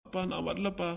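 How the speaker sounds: put-on timid child. Child refuses to go.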